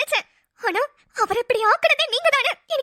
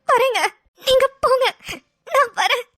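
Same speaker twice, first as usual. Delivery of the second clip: crying; 3 semitones higher than usual. Acted. Crying while answering brother.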